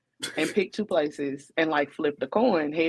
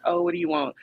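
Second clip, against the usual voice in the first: mock date; 11 semitones higher, faster than usual. Voicing a pushy date.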